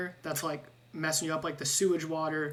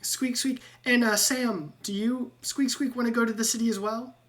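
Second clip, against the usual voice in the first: much higher squeaky rat voice, squeaks between words; squeaky rat Ratrick; 6 semitones higher than usual. Acted. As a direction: chatter like an eager little rat. GM voicing the rat guide.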